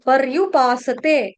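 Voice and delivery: "पर्युपासते" slowly, r joined straight to yu; half र. Shown as a demonstration. Teacher modelling for students, slow "पर्युपासते" with half r. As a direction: sound par-yu-paa-sa-te with long vowels. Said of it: "आधा उच्चारण करना है र का".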